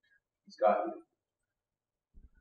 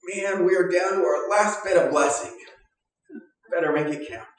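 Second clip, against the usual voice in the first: higher, louder, fretful; mock worried God; 7 semitones higher, 5 dB louder than usual. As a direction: play a stingy God counting pennies. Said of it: "God is sitting there going".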